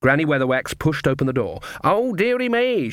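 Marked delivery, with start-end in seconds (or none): 1.8-2.9 high, slow booming mock-sweet old woman; thundered. A narrator's reading. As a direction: boom it out slowly like a sarcastic crone. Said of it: "she thundered".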